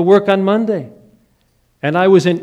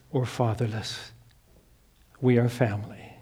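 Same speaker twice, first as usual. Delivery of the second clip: soft sincere assurance; 4 semitones lower, 4 dB quieter than usual. Acted. Quiet sincere close of sermon point.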